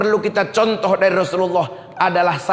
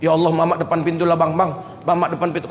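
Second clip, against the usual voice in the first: put-on scared child; 5 semitones lower, faster than usual. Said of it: "Takut betul".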